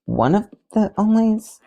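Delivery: high, slow, questioning; unsure second try. A narrator's reading. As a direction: try the phrase out, doubtful, rising in pitch. Flash retries his introduction, unsure.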